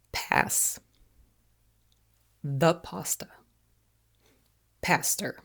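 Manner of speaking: slow whispered American demo of pass, pasta, pastor; American accent demo. Shown as a demonstration. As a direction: model the American way, softly. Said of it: "So repeat after me".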